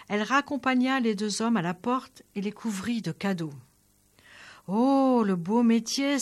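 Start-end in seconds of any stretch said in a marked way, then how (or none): 4.7-6.2 exclaiming. Acted. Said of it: "s'écria le soldat".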